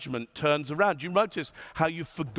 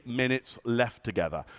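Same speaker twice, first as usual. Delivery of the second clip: low, heavy delivery; 4 semitones lower, 3 dB quieter than usual. Shown as a demonstration. Speaker demonstrating a gloomy countdown to the audience, lower and softer. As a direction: lower and softer, dropping at the end. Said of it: "how you start to judge me".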